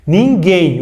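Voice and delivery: "Ninguém" as nin-GHEIN, no W; "Ninguém" pronounced clearly, its U not sounded; ninguém, silent U. Shown as a demonstration. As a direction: say "Ninguém" with a hard G straight into the E. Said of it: "O U não soa".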